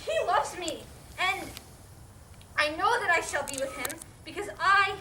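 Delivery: loud, heated defense; indignant. Acted. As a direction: defend him with fierce pride. Meg defends John angrily.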